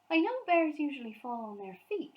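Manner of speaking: dry amused remark; Mrs Bird's voice. A narrator's reading. Mrs Bird voiced in story.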